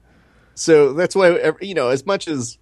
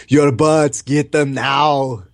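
slow, lightly voiced German accent; mock movie villain German accent; 4 semitones higher, much slower than usual. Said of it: "person doing a German accent".

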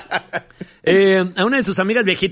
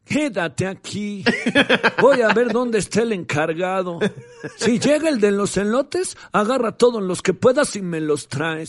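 put-on old woman whisper. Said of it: "leer con voz de viejita". (voz de viejita suave)

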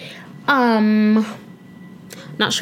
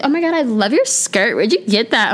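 lightly mocked gushing compliment, raised pitch; Mean Girls quote. Podcaster quoting a fake compliment from the movie, mock gushing. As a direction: fake enthusiasm over a skirt. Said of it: "You know, Mean Girls quote".

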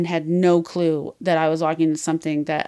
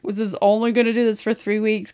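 Celeste's contract; 4 semitones higher, 3 dB louder than usual. Retold or imitated. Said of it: "So Celeste is all like".

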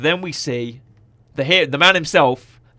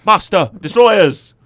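excited announcing; 6 semitones higher, 9 dB louder, much slower than usual. Retold or imitated. Hyping fan-favourite droids.

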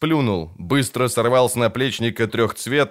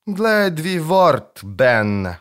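calm; 6 semitones higher, much slower than usual. A narrator's reading. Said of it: "спокойно сказал".

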